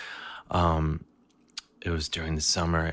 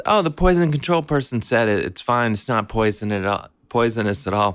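high, louder mom voice; chirpy relief; relieved mom; 5 semitones higher, 5 dB louder than usual. Retold or imitated. Mom telling the family it's fine, high relieved. Mom relays the good news.

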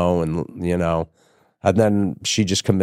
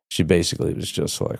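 ordinary talk

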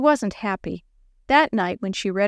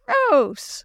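high-pitched squeal of disgust; 7 semitones higher than usual. A narrator's reading. Lori at the dog's long tongue, disgusted squeal. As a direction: squeal it like a grossed-out kid. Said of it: "Lori squealed".

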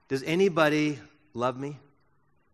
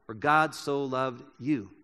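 soft personal reading; 4 semitones lower, 4 dB quieter, slower than usual. Shown as a demonstration. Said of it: "you could put your name in there".

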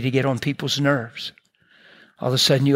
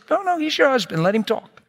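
retold overruling; 10 semitones higher than usual. Overrules daughter's interruption in retold quarrel.

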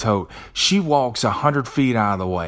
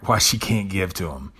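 usual speaking voice

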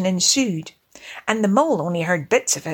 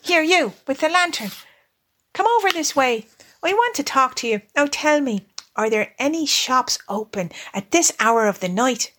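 higher-pitched, brisk summons; masterful; 4 semitones higher than usual. Acted. Rat questions mouse with the lantern, masterful. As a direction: take command, calling the helper over. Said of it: "said the masterful Rat".

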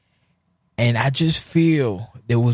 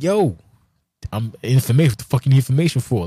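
high mock whine; 5 semitones higher, faster than usual. Acted quarrel, his own reply.

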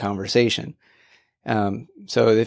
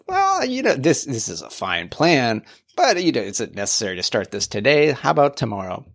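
imitating someone wriggling out of it; mock stalling. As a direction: hem and haw like a procrastinator. Voices our stalling over a plan.

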